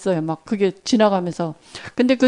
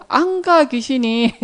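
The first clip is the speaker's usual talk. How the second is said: commanding the ghost; 3 semitones higher, slower than usual. Retold or imitated. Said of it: "이제 선포한 거야".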